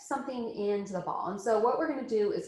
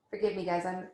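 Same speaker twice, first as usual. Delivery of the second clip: suppressing a sneeze; holding back a sneeze. Real, not acted. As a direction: talk while fighting a sneeze. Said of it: "I'm trying not to sneeze".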